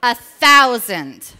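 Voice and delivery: big loud drawn-out call with a laugh; loud laughing count. Real, not acted. Speaker hyping the audience, slow laughing shout. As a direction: stretch it out and laugh it to the room.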